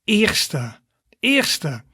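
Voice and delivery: "eerste" said twice, clear ee vowel; Dutch pronunciation demo. Shown as a demonstration. Teacher models the Dutch word eerste, clearly. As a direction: model "eerste" carefully for learners. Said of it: "so first in Dutch would be".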